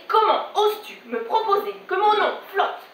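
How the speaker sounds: lightly voiced offended mother; measured, affronted maternal reproach; indignant mother. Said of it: "Elle me dit". (mère offusquée, légèrement jouée)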